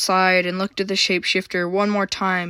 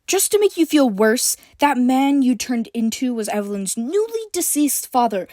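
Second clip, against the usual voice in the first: hissed; 5 semitones higher than usual. A narrator's reading. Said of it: "April hissed".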